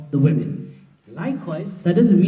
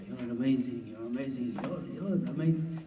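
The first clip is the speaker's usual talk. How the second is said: softer, lower cooing praise; mock flattery; 4 semitones lower, 11 dB quieter than usual. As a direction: flatter him gently, half-joking. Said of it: "big him up".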